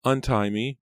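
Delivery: plead, on the edge of crying; tearful pleading. A narrator's reading. Bound captive begs kidnappers, near tears. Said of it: "feeling about to cry".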